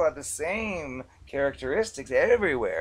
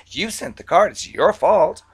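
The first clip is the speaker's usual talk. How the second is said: indignant blaming; 3 semitones higher, 5 dB louder than usual. Retold or imitated. Acted debtor blaming the bank.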